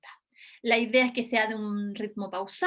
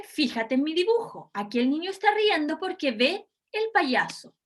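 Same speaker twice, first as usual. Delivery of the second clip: examiner voice; 2 semitones higher than usual. Shown as a demonstration. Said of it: "Yo comienzo entonces diciéndole".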